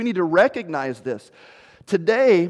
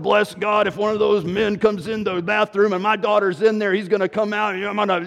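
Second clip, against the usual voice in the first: slightly raised, worked-up imitation; mock amped-up; 3 semitones higher than usual. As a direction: mildly mimic someone getting all riled up. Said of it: "we get all amped up".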